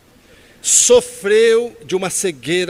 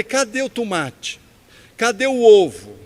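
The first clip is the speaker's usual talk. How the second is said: slow, louder, pressing each question like an offended chef; emphatic demand; 8 dB louder, slower than usual. Retold or imitated. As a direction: demand each missing topping in turn. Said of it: "Eu falei com tanta ênfase". (cobrança enfática, mais alta e lenta)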